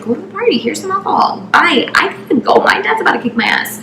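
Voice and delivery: high, hushed, dropping to a whisper; soft, panicky acted goodbye; hurried brush-off. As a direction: shoo him away under your breath.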